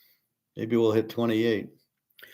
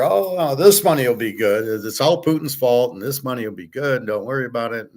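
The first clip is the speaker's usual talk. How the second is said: mock reassurance; 3 semitones higher, 3 dB louder than usual. Mimicking people who say the money will be good, mock reassurance. Mocking others' dismissive money promises.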